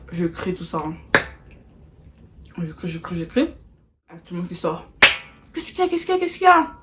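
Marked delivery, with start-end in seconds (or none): 5.5-6.7 mock worried neighbours. Everyone rushing out.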